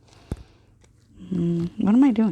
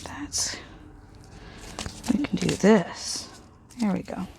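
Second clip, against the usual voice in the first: whispering; 5 dB quieter, slower than usual. Real, not acted. Muttering while gluing.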